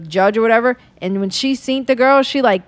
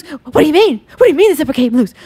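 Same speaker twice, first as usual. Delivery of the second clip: mock disbelief; 4 semitones higher, 4 dB louder than usual. Retold mermaid reacting to broken zipper.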